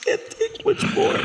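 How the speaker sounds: slow, breathless whisper; exhausted whisper. Acted. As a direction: barely get the words out, spent. Exhausted after pleading.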